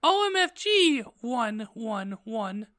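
very high-pitched outraged squeal; mock angry shout. Heroine outraged by the sign, high mock-angry cry. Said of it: "I shouted angrily".

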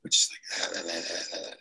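low strained croak of a breaking voice; mock stressed croak. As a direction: let the voice crack and sink. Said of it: "My voice does this thing ... when it gets stressed out".

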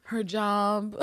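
amused, laughing echo of the words; incredulous, giggly repeat. Real, not acted. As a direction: repeat it while cracking up. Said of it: "that made me laugh".

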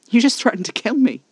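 high, loud disbelief; incredulous. A narrator's reading. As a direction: throw it back, scornfully incredulous. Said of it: "I laughed in his face".

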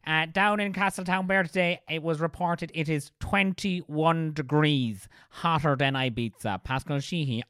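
mock TV news reporter sign-off; measured on-location report, stretching key words; Pascal Sheehy. Imitating a reporter's hot weather bulletin, news reporter voice. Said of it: "Pascal Sheehy reporting from".

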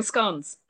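scones with a short o, rhyming with gone; British scones. Real, not acted. Host promising to bring treats, scones with short British o. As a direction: say scones as "skons". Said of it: "or scones. Who knows what it'll be".

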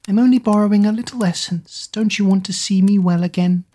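high, petulant witch; pouting. Acted. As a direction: whine like a spoilt child. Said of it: "pouted like a stubborn child".

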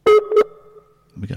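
very high, very slow sing-song; dramatic drawn-out announcement. Pretend. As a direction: stretch it out like a showman.

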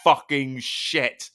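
slow, stunned curse at the sudden strain; shocked outburst. Retold or imitated. Retelling to a friend how the ropes floored him, stunned slow curse. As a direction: blurt it out, dragged and stunned.

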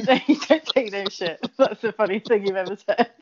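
laughing through the words; tickled, repeat it back while laughing; real giggly amusement; amused laughter. Real, not acted. Cracking up at friend's phrase.

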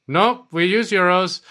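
mock patient reply. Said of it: "he's like".

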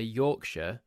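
Yorkshire ending in a short "shuh"; British pronunciation. Shown as a demonstration. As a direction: pronounce Yorkshire YORK-shuh. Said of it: "make a specific decision to say".

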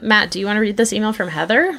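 distant, off-mic voice; speaking away from the microphone; far from mic. Real, not acted. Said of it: "You're so far away from that microphone".

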